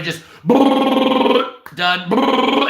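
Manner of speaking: rolled lips buzzing like a machine gun, high; gunfire noise. Retold or imitated. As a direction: brrr like a gun spraying rounds. Mimicking gunfire from the video.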